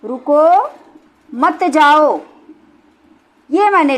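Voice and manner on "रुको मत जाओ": rising रुको, a clear pause, then मत जाओ together; pause after रुको. Shown as a demonstration. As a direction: break after रुको, keep मत जाओ joined. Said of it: "मैंने क्या लिखा है?".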